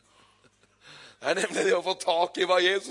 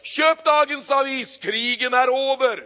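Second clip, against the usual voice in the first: high, loud, drawn-out newsboy cry; newsboy calling out; 8 semitones higher, 8 dB louder, slower than usual. Acted. Newsboy announcing the war's end to the street. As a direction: shout the headline to passers-by. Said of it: "sier han".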